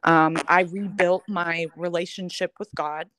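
choked-up, breaking over the word God; voice catching with grief. Real, not acted. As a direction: say "rebuilt my relationship with God" choked with tears. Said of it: "I'm getting emotional".

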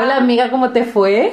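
lilting Puerto Varas greeting; southern Chilean singsong. Retold or imitated. Greeting a friend after a trip south, singsong southern accent. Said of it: "llegábamos hablando así".

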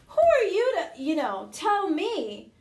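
high and loud, hammed-up outrage; mock indignant. Mom snapping back at her son in mock indignation. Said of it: "I'm like".

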